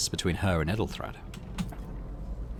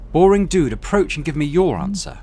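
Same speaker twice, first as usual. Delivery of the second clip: high, loud imperious woman's voice; dry commanding rogue trader; 8 semitones higher, 7 dB louder than usual. Acted. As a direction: summon him like a superior. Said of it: "The dry female voice".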